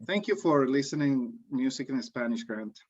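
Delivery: deadpan sarcastic thanks, pitched low; low-key sarcasm, dropping away on the name. Real, not acted. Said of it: "I was being sarcastic".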